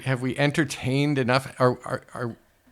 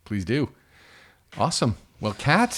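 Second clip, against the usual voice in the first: normal talking voice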